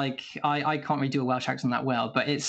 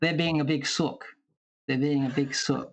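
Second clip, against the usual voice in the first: casual Australian accent; Aussie accent demo. Shown as a demonstration. Showing the panel what Aussies say about someone crying, Aussie accent. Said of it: "in Australia, when, when people answer".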